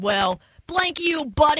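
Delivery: imagined retort. Pretend. Texan imagining talking back to an accent critic, pointed retort. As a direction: tell them off in a mock retort. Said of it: "should have turned around and said".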